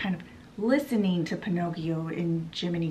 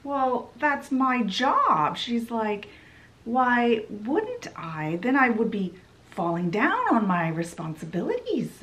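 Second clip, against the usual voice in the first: smug villain; 3 semitones higher than usual. Retold or imitated. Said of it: "the Scarlet Fairy is like".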